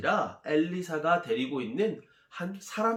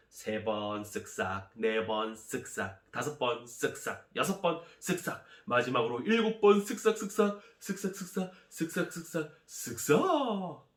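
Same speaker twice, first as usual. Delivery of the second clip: building count. Acted. Narrator counting washes up to the seventh, building suspense. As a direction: count the scrubs with mounting suspense, pitch rising.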